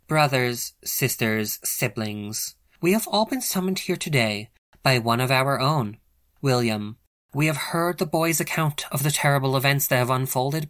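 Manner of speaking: a leader rousing her wolves; formal pack address. A narrator's reading. Leader addresses wolf assembly.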